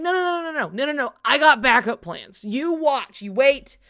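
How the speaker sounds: high, excited mock villain; hammed-up scheming guy brushing it off; villain waving off worries; imitating Master of Masters. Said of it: "And he's like".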